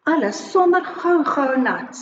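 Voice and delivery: put-on measured line-by-line children's poem; teacher modelling a rhyme in short, separated phrases; poem read for repeating. Shown as a demonstration. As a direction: read out each phrase for learners to echo, leaving pauses. Reads poem for pupils to repeat.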